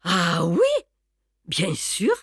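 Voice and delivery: uncannily composed reply; dangerously calm. A narrator's reading. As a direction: answer with a calm that spells danger. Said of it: "Elle était d'un calme dangereux, surnaturel". (d'un calme dangereux, surnaturel)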